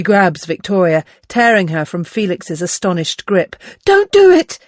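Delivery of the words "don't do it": high desperate shout. A narrator's reading. Berenice shaking Victoria, shouting high and loud. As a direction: yell it in panic. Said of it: "Berenice shouts".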